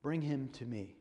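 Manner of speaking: put-on Jesus gently asking for the boy; compassionately. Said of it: "very compassionately".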